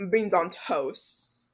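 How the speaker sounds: slow attempt at British accent; mock British accent. Shown as a demonstration. Showing friend made-up British words, mock British accent. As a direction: say it as a fake Brit. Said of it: "say made up British words".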